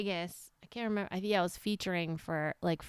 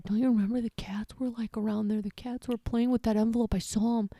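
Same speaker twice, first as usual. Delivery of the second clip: conspiratorial hushed whisper; 3 semitones higher than usual. Retold or imitated. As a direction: whisper the lie sneakily. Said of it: "And he said".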